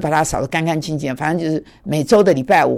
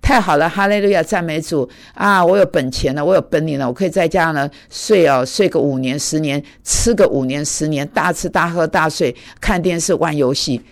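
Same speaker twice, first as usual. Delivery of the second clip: selfish believer. Retold or imitated. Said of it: "不是那么自私的说".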